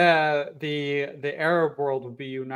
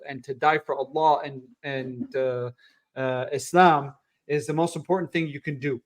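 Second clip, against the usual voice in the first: British imam voice. Retold or imitated. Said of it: "British, uh, Imam voice".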